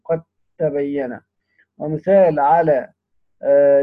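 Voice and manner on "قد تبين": slow "قد تبين" with د fully absorbed into ت; dal dropped by idgham. Shown as a demonstration. Teacher showing the merged letter vanishes, "قد تبين" with held tt. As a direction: pronounce "قد تبين" qat-tabayyana, holding the tt. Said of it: "الحرف إذا أدغم يسقط هو وصفته".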